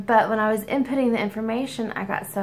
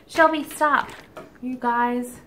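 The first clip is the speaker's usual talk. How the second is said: calling to the dog; 3 semitones higher, 4 dB louder, slower than usual. Real, not acted. Scolding the barking dog.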